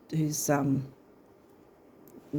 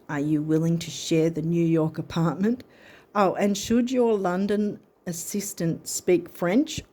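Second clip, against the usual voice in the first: lightly performed reading of the card, a bit raised. Acted. Reader reading the card's message to viewers in a lively read. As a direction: read the card out like a chirpy letter.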